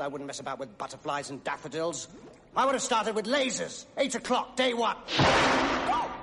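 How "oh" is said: sudden high yelp; startled cry. Acted. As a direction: jump as if caught off guard.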